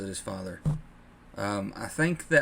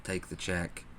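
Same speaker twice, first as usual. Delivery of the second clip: cowardly dad; 3 semitones lower, 5 dB quieter than usual. Retold or imitated. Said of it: "cowardly in the aspect of".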